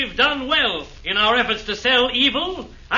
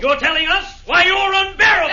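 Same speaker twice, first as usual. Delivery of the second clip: heated, mocking shout; angry retort; shouted insult; 3 semitones higher, 3 dB louder than usual. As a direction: yell the jab across the room. Hayman keeps insulting Ivan.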